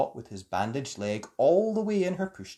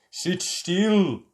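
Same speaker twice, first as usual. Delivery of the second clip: order; 5 semitones higher, 5 dB louder than usual. A narrator's reading. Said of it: "Helen ordered".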